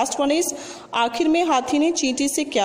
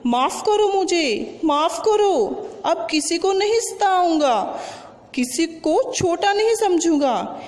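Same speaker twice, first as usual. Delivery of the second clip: pleading elephant; 4 semitones higher than usual. Acted. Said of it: "हाथी गिर पड़ा और बोला".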